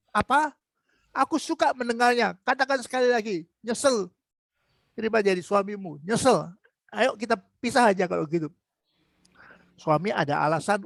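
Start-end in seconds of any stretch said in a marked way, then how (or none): 0.1-8.5 gleeful husband. Retold or imitated. Lazy husband gloats at his wife, a raised, gleeful tease. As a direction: play the husband happily egging her on. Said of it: "Malah senang".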